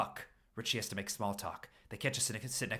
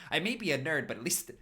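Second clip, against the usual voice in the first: losing it laughing; 6 semitones higher, 4 dB louder than usual. Real, not acted. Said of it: "sorry, I'm losing it".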